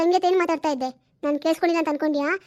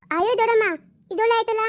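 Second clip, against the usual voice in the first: exasperated protest; 4 semitones higher than usual. Acted. Niece protesting to her aunt, exasperated. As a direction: throw up your hands at the aunt's words.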